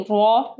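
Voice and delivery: रा as a full, rounded "ro"; रा with a weighty, rounded vowel; heavy Ra. Shown as a demonstration. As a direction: say रा thick and heavy. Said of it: "रा को heavy पढ़ना है".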